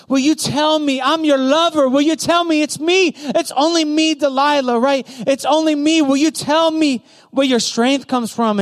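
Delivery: pleading. Acted. Delilah pleads with Samson to tell.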